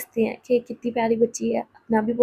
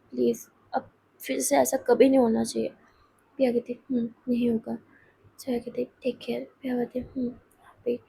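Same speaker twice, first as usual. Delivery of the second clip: soft farewell; 6 dB quieter than usual. Acted. Soft farewell between two friends.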